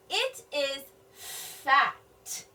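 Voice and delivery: very slow, word by word; slow sounding out. Shown as a demonstration. Teacher decoding for children, very slow. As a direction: sound out "fat" slowly. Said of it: "noticing something about the gift".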